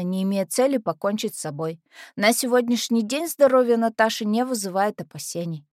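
newspaper item recited; reciting from memory. Acted. Heroine recalling the newspaper note about herself, reciting. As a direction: recite a short news report. Морщит лоб, вспоминает.

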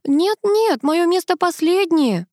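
high, slow whine; whining. A narrator's reading. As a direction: whine it like a sulking child. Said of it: "конючила Тоня".

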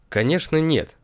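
high, insistent piglet voice; отчаянно. Acted. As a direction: shake it off, firmly high. Поросёнок отчаянно спорит сам с собой. (отчаянно, высоким голосом)

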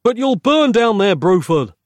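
high, loud desperate yell. Acted. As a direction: shout it over the flames. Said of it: "Nick yelled".

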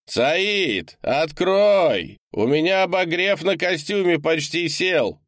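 freezing man outside begging to be let in; desperate shouting man. A narrator's reading. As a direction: pound on the door with your voice. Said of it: "кричал геолог".

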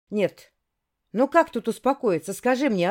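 loud anguished roar; roaring like a wounded beast. Acted. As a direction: bellow it out in raw frustration. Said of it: "Словно раненый зверь взревела я".

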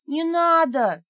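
high pitiful squeak of a little spirit; plaintive squeak. A narrator's reading. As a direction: squeak it out, pleading. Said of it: "жалобно пискнула темнота". (жалобный писк)

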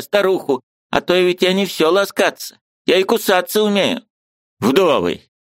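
put-on high, indignant old woman's voice; angry old aunt. Aunt bursting in to scold her niece, high and indignant.

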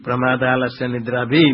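"भी" ending on an open ee, no s; mistaken visarga ending. Shown as a demonstration. Teacher imitating how many people misrecite, "भी" without final s. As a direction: say "भी" in place of the joined s ending. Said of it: "ऐसा बोलते हैं".

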